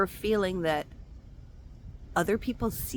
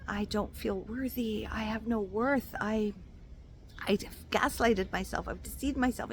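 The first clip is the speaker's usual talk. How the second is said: pained confession; 2 semitones higher, 5 dB quieter than usual. Retold or imitated. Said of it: "be honest with yourself and be like".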